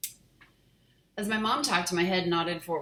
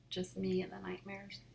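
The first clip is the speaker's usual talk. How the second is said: eerie whisper; 3 semitones higher, 5 dB quieter than usual. Acted. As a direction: hush it like a secret. Narration dropped to whisper.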